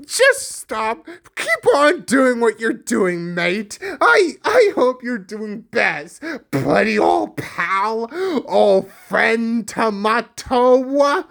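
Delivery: hammed-up mock encouragement; overdone buddy-buddy sarcasm; exaggerated. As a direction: lay the fake friendliness on thick, drawing out the last words. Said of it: "am I over exaggerating this".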